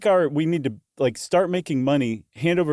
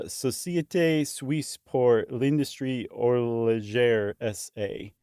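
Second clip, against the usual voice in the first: slow, odd Spanish-accented French name; weird Spanish accent; slower than usual. Real, not acted. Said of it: "I said that with a weird Spanish accent".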